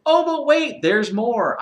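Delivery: high, loud TV-salesman hype; infomercial pitch. Acted. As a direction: sell it like a late-night ad. Infomercial joke about more ailments.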